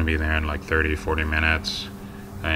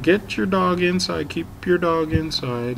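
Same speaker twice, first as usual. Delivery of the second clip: angry retold order; 11 semitones higher than usual. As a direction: order the owner to lock the dog up. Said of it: "I said".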